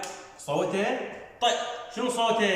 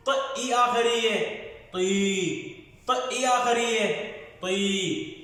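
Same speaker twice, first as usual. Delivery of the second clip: sound blending drill; 3 semitones higher, slower than usual. Shown as a demonstration. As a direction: break ط and آ apart, then join them as طا. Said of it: "هذا حرف الط".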